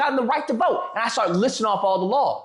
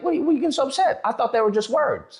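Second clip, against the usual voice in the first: sarcastic comeback; 2 semitones higher than usual. Pretend. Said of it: "What I should have said".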